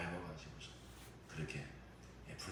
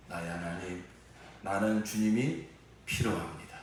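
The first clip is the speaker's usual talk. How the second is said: prayer of confession; 4 dB louder than usual. Acted. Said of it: "이렇게 고백합시다".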